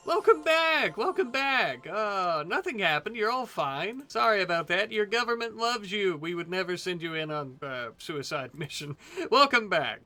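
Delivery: lightly voiced propaganda announcer; dystopian announcer. Greets pilots like state propaganda.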